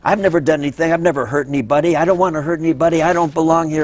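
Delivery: hammed-up indignant draftee, rushing; mock angry. Drafted objector railing at his letter, in a half-acted huff. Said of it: "he's P O'd".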